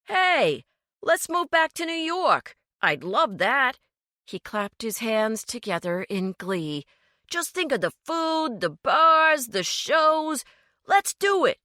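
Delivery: gleeful high excitement; cheered up. A narrator's reading. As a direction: sell the dream of the big city. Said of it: "he quickly cheered up".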